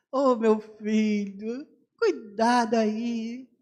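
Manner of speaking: slow, drawn-out Ceará country talk; local sertão speech. Retold or imitated. Locals teasing the missionary, slow Ceará drawl. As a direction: stretch the vowels like the locals. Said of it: "Assim que falam pra, falavam pra mim assim".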